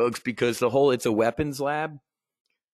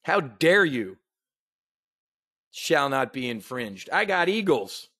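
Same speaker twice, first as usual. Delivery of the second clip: mocking Biden. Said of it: "he threatened Americans".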